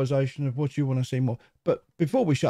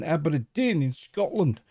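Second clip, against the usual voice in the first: put-on Scottish accent; slower than usual. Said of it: "Good accent".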